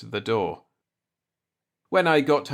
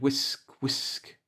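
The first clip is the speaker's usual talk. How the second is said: soft breathy brushing sound, fading to unvoiced; wire brush whisk; 3 semitones higher, 6 dB quieter than usual. A narrator's reading. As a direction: brush the word out like bristles on a barrel. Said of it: "like a wire brush going around a barrel".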